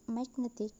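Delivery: magnetic with the stress on net; second-syllable stress. Shown as a demonstration. Teacher showing how a suffix moves stress, magnetic stressed on net. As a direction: say magnetic, putting the weight on net. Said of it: "to the second syllable".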